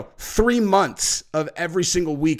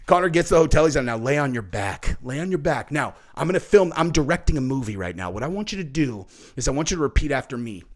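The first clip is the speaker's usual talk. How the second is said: lower, softer, rapid-fire bossy orders; bossy Connor impression; 6 semitones lower, 5 dB quieter, much faster than usual. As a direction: rattle off commands like a pushy director. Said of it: "Connor's like".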